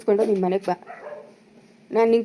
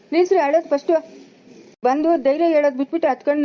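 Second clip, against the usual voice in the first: sharp scolding; 5 semitones higher than usual. Acted. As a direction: order them to stop now. Scolding crying women to stop.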